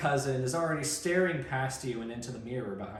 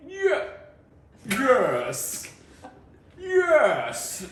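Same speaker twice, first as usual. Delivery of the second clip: high, loud, giggly mock mom; 10 semitones higher, 7 dB louder, much slower than usual. Reader tries a voice for the mom, laughing. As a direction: try out a silly squeaky mom voice, laughing. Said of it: "What voice should I give your mom?".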